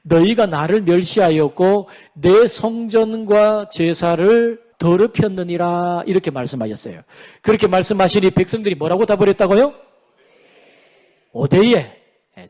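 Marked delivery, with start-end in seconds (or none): 0.0-6.0 slow, measured divine pronouncement; God's solemn rebuke. Acted. Preacher quotes God rebuking the people over worship, solemn and slow. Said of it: "하나님 뭐라고 말씀하시냐면". 11.3-12.0 loud dialect retort of denial; regional Korean dialect. Acted. Preacher voices the people answering God, loud dialect denial. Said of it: "사투리 하나 가르치셨는데".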